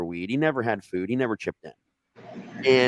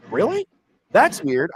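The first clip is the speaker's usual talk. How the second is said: pitched way up, dopey surprise; high mock surprise; 8 semitones higher, 5 dB louder, slower than usual. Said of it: "He's like".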